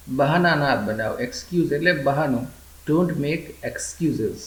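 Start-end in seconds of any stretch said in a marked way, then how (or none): 2.9-4.4 very slow, careful teacher read; slow model sentence. Shown as a demonstration. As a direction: lay each word out slowly for learners. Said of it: "teacher models English sentence". (ધીમે ધીમે સ્પષ્ટ ઉચ્ચાર)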